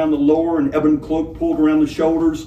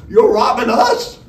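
slow, much higher, louder disbelief with a laugh; incredulous laugh; 10 semitones higher, 7 dB louder than usual. Acted. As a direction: laugh it off as if it can't be true. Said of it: "Straw Hat sounded incredulous".

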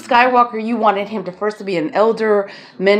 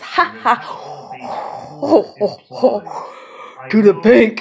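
mock laughing; much slower than usual. Imitating laughing to the bank.

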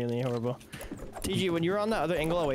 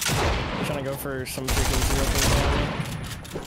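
raging gamer; 4 dB louder, slower than usual. Real, not acted. Frustrated about lag in match.

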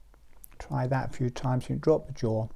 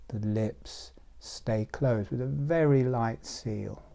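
measured breathing cues, growing softer; guided meditation; 2 semitones lower, 5 dB quieter than usual. Real, not acted. Teacher pacing a group's breath with the jaw, meditative. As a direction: lead the breath in and out with pauses between phrases.

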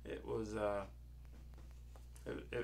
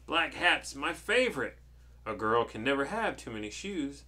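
lightly voiced, pleased witch; delighted storybook witch; 3 semitones higher, 7 dB louder than usual.

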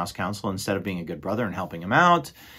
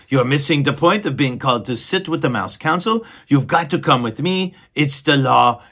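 higher, louder exasperated squeaky mouse voice; exasperated mouse brother; 4 semitones higher, 6 dB louder than usual. Acted. Furlow scolding his dreamy brother, exasperated and higher. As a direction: huff it out as the fed-up brother.

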